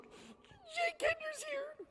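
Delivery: imitating a giddy assistant, very high and drawn out slowly; stretched-out high squeal of an excited assistant announcing a celebrity. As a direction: squeal it like a starstruck fan with a crush. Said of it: "she's all giddy".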